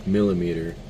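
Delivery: halting, just woke up, tripping over words; stuttering. Real, not acted. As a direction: stumble and restart words sleepily. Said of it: "I apologize for my stuttering".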